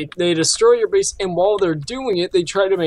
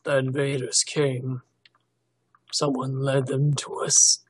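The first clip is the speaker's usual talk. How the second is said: low, slow, hushed narration; solemn, drawn-out saga opening; mock-tragic storyteller; 3 semitones lower, 6 dB quieter, slower than usual. Mock-solemn telling of tragic tale.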